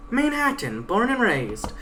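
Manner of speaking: Pegasus. Acted. Pegasus taunting her guide, a lightly voiced cocky mare. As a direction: read the Pegasus as a cocky, defiant young mare.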